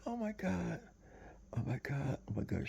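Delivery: high, panicked gasps of oh my God; imitating a hysterical girlfriend over her dead boyfriend. Girlfriend finding her boyfriend dead, mock hysterical.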